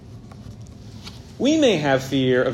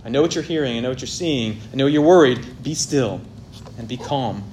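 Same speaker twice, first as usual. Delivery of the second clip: reassuring parent. Retold or imitated. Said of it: "a parents assuring children".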